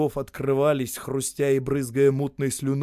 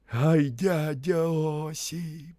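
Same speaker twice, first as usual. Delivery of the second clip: quiet admiration; 4 semitones higher, much slower than usual. A narrator's reading. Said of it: "тихо восторгался".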